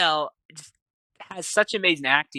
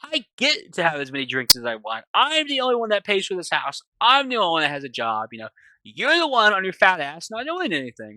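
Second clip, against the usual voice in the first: mildly aggressive acted rant; retold accusing tirade; on the offensive; 3 semitones higher than usual. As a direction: go on the attack, lightly acting a resentful husband. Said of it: "he's kinda being offensive with Doctor Mary".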